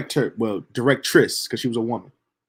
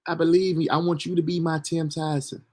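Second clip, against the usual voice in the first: put-on a touch of Southern country accent, slightly higher; light country accent; 5 semitones higher, 4 dB quieter than usual. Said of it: "she had a country accent".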